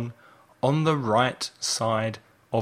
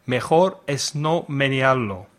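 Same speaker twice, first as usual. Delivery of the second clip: Spanish with a bad accent. Real, not acted. Teacher quizzing learners on idiom translations, bad Spanish accent. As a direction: read the Spanish in a non-native accent. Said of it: "in my bad Spanish accent".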